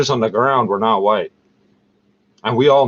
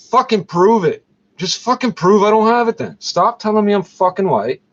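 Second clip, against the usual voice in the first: angry outburst; 7 semitones higher than usual. Real, not acted. Ranting at the doctor who dismissed him, angrily higher. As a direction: pitch jumps higher, heated and insistent.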